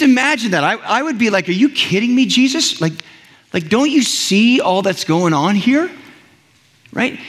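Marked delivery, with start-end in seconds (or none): 1.5-5.9 higher-pitched mock disbelief; acted incredulity. Believer questions Jesus amid the battle, incredulous. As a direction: protest in light, raised-pitch disbelief.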